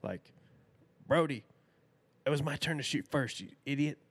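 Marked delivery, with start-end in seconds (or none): 1.1-4.0 put-on kids yelling at each other. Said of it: "you probably could have heard us all the way down the river".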